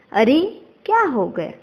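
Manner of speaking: mild mock surprise, lifted opening; demonstrated surprise. Shown as a demonstration. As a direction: act out a startled question lightly. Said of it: "आश्चर्य".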